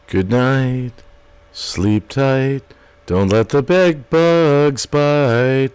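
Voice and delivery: slow, gentle lulling to sleep; soothing bedtime voice. Acted. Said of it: "He'll, he'll sing 'em to sleep".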